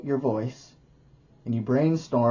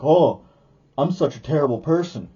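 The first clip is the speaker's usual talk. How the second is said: loud, hammed-up groaning self-pity; dramatic self-pity; 3 semitones higher, 5 dB louder than usual. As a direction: wail it like a mock tragedy. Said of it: "you're just like".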